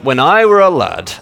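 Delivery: high-pitched mock Yorkshire; Yorkshire accent. Preacher returning to the jokey phrase, mock Yorkshire accent. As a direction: put on a lilting Yorkshire accent. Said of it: "and it's a Yorkshire accent".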